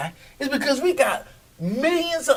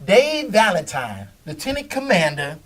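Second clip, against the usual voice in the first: hyped stadium intro, drawn out; booming announcer build-up to the name; arena announcer; 4 dB louder, slower than usual. Shown as a demonstration. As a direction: announce him like a ring announcer. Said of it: "I just wanted to do that".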